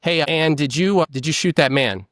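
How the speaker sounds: straight, direct question to a suspect; interrogator's question. Retold or imitated. Officer questioning Anne about a shooting, direct and plain. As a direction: ask it flat and direct like an officer. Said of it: "by re-asking the question".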